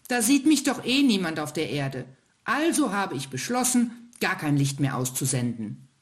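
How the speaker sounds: hohe, schmollende Kinderstimme des kleinen Sterns; verdrossener kleiner Stern. Acted. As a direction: klagend und beleidigt, als kleiner Stern. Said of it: "antwortete der kleine Stern verdrossen". (kleiner Stern klagt dem ältesten Stern verdrossen sein Leid)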